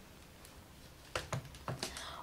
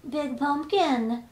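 slow, higher creaky mummy voice; dusty mummy rasp; 4 semitones higher, 4 dB louder, slower than usual. Acted. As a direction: drag it out like an old mummy. Mummy arrives.

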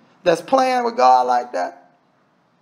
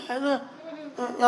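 muttering to himself; 3 semitones higher, 9 dB quieter than usual. Retold or imitated. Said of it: "He's like, he's like".

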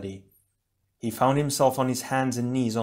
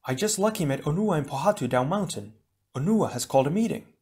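Leiwa voice; 5 semitones higher than usual. Acted.

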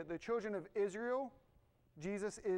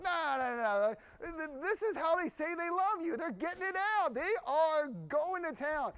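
animated reassurance; 4 semitones higher, 3 dB louder than usual. Retold or imitated. Defends yelling family to his wife.

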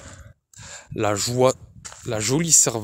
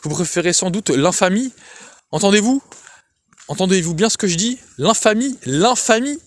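shouting; 7 semitones higher than usual. A narrator's reading. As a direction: hurl the insult over and over. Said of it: "cria-t-il". (cri furieux, très aigu, qui monte sur « l'infamie »)

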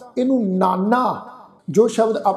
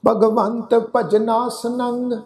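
slow recitation; much slower than usual. Shown as a demonstration. Recites verse slowly.

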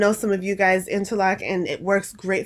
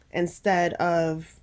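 breathless, gasping between phrases; out of breath; 2 semitones lower than usual. Real, not acted. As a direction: talk while short of breath. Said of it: "I'm out of breath again".

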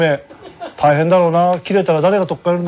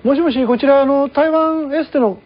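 polite caller, lightly higher; setting skit character; 4 semitones higher than usual. Acted. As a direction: play the towel collector politely. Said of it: "どうぞ".

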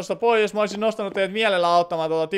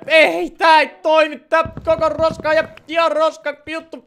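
higher, louder frustrated rant; frustrated outburst; 9 semitones higher, 6 dB louder, slower than usual. Real, not acted. Streamer fails to place the sign, higher and louder frustration. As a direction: vent at the broken build.

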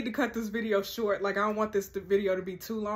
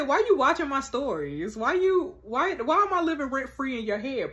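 raised, stumbling indignant questions; exasperated demand; 3 semitones higher than usual. Acted. Confronting the childminder for watching her stories, raised exasperated demand. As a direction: pitch it up, tripping over the repeated "why".

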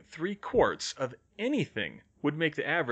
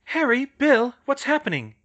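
high, loud anxious call; 13 semitones higher, 8 dB louder than usual. A narrator's reading. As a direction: call across to them at raised pitch. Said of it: "Hermione called".

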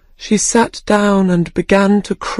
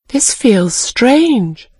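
puzzled Alice; 5 semitones higher, much slower than usual. Acted.

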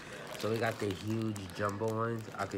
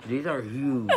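laughing; 3 semitones higher, 7 dB louder than usual. Real, not acted. Laughing with mouth stuffed.

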